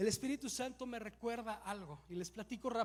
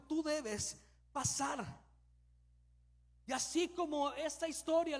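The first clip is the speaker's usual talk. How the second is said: preaching; 3 semitones higher than usual. Acted. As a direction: press the message home to the congregation. Pastor preaching to congregation.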